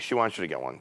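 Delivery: low, soft, under the breath; avoiding confrontation. Retold or imitated. Agent to angry husband without eye contact, timid and soft. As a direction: say it quietly, as if not looking at him. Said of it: "I wouldn't even make eye contact with him".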